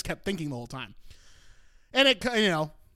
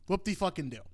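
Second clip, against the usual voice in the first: softer, quicker sarcastic aside; dismissive; 6 dB quieter than usual. Real, not acted. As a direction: toss it off quietly, unimpressed. Repeats sarcastic reaction, lower key.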